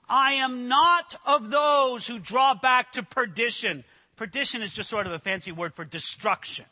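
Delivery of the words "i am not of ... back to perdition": slow, ringing shout with "not" hit hard; firm preacher's cry; bold declaration. Pretend. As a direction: proclaim it like a vow, slowly. Congregation's declaration of faith.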